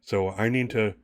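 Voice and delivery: lightly acted hunted man, urgent. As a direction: plead for help in a hurry, mildly acted. Plays urgent man pleading for girl.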